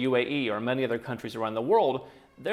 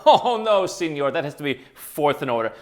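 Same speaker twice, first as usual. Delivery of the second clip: laughing mock clerk; 3 semitones higher, 7 dB louder than usual. Mocking a fussy embassy clerk.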